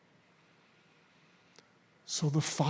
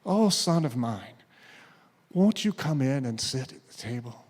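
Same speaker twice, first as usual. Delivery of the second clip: pleading father; 2 semitones lower than usual. Acted. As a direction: plead gently, let it fall to a hush. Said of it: "the father just pleads with him".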